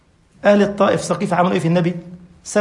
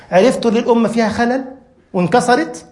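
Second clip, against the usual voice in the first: rising, louder fervent appeal; impassioned preaching; 6 semitones higher, 3 dB louder than usual. Real, not acted. Preacher lamenting to the faithful, louder and higher. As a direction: plead with the congregation, voice rising.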